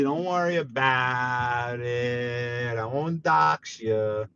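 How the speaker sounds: drawn-out teasing calm; slow mock reassurance. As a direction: stretch it out slyly. Teasing viewer Muggsy.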